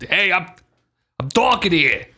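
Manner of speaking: put-on New York Italian accent. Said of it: "Talking like Big Tony".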